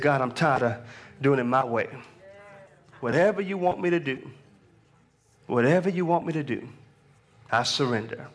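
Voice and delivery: low, subdued plea to God; surrendering prayer. Retold or imitated. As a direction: give in to God, low and weary.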